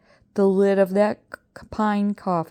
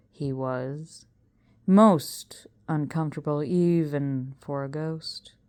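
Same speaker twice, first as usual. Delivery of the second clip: slow, drawn-out showman's voice; a carnival professor savoring the tale; 3 semitones lower, slower than usual. Acted. Professor tells the crowd about the coffin, slow and grand.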